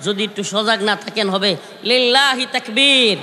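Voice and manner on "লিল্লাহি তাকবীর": rallying shout. Real, not acted. Calls crowd to chant takbir.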